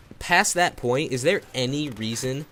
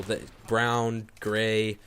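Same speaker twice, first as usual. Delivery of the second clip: voice crack; 2 semitones lower, 3 dB quieter, much slower than usual. Real, not acted. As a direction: voice cracking on a word. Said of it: "that was a bit of a voice crack there".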